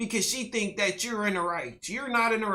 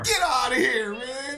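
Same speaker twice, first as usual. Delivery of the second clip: loud yell; 6 semitones higher, 3 dB louder than usual. Retold or imitated. Echoing the clip's shout.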